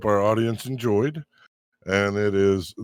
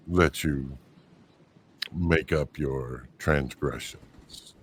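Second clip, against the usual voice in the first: dark whisper behind you; 5 semitones lower, slower than usual. Acted. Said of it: "a very, very, very familiar voice".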